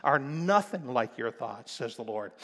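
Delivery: voice of God. Acted. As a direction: declare it with divine weight. God says through the prophet.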